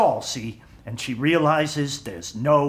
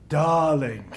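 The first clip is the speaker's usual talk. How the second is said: a light imitation of a glamorous star purring "Darling"; Tallulah Bankhead drawl. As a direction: tease out "Darling" like a tipsy old movie star. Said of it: "she spoke slowly in this deep voice".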